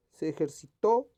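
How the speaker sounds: ejercitó stressed on its final TÓ; stress on final syllable. Shown as a demonstration. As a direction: hit the last syllable of ejercitó. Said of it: "que esté correctamente escrita".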